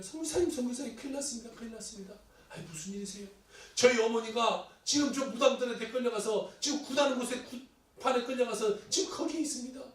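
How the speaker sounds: put-on a child rushing in with terrible news; urgent alarm.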